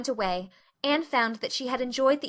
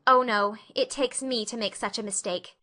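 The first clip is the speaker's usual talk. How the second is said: forlorn. Acted. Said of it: "said Anne forlornly".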